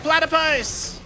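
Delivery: high, surprised cry of the animal's name; startled shout. Real, not acted. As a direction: blurt it out in surprise.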